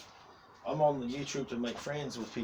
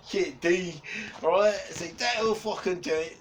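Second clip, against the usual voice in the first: higher and louder, a playful bark at his mate; mock telling-off; 7 semitones higher, 7 dB louder, slower than usual. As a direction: scold him loudly, half joking.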